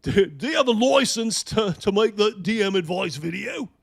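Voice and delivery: loud, high mock British challenge; mock British "got a license"; British accent. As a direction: demand it like a bossy British bloke. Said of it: "British accent".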